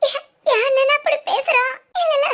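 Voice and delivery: langsam, unter Tränen; tearful disbelief. Acted. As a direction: fassungslos weinend fragen. Schwester fassungslos über Bruder.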